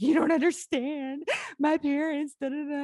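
a hint of a sulking niece complaining; lightly voiced niece whining about her parents; whiny teen. Niece breaking down, protesting.

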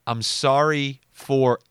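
slow, spaced lead-in to a stressed "your"; set-up for emphasis. Retold or imitated. Texting brother after lost bet, mock condolence. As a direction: draw out "sorry for", holding back the punch. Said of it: "and in all caps, "your loss".

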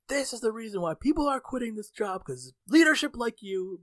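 high-pitched indignant retold rant; not happy. Worker blames manager for staff quitting, angrily. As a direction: lay blame on bad leadership. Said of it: "I was not happy".

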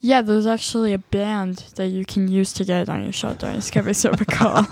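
strange put-on voice; weird voice. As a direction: keep the weird voice going. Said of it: "you can be done with the voice now".

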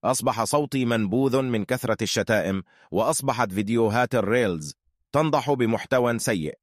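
synthetic AI narrator voice; robot voice. Acted. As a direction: speak like a text-to-speech robot. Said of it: "أنا روبوت".

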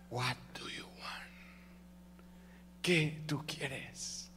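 slow, soft near-whisper; hushed divine answer. Acted. The Lord answers the one calling, slow whisper. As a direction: whisper it slowly, drawing out each word. Acting God's intimate answer.

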